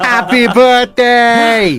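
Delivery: slow high laughing goblin. Acted. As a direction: drag it out like a giddy gremlin. Soundboard goblin birthday shout.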